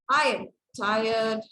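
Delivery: slow, exasperated delivery, hard on the first word; drawn out at someone who keeps annoying you; really annoyed. Shown as a demonstration. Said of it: "somebody is really annoying you".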